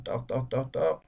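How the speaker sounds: spoken knock-knock in short, even beats; imitated door knock. Shown as a demonstration. Visitor knocks at a door on the altiplano, imitated knocking. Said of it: "Golpean la puerta".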